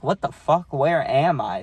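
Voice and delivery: lost and suddenly alarmed; confused alarm. Retold or imitated. Waking in an unknown place.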